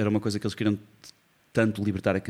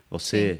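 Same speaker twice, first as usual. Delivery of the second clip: "Você" with an open, strong final "cê"; stress on last syllable. Shown as a demonstration. Musician showing Brazilian Portuguese stress, "Você" weighted on "cê". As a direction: lean on the end of "Você". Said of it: "a sílaba forte e aberta é sempre a última".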